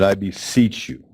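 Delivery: slow, measured imitation of a solemn plea; somber plea. Elderly man urging his guest to keep helping families, somber. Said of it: "he gets real somber".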